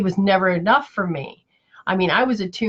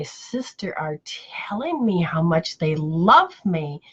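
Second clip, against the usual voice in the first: slow, voiceless, choked-up whisper; emotional whisper; slower than usual. Retold or imitated. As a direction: barely get the words out, slowly. Retelling bawling over mother's love.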